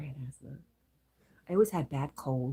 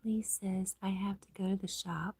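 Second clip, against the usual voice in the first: hushed ASMR-like murmur; whisper; 4 semitones higher than usual. Real, not acted. Streamer whispers chat messages to viewers.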